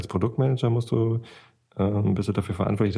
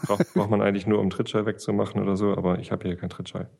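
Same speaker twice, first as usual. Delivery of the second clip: thin voice no bass. Shown as a demonstration. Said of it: "weniger Bässe".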